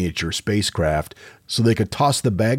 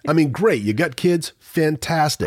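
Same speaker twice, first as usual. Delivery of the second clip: sarcastic; 8 semitones higher than usual. Acted. Mocking parents on cruises.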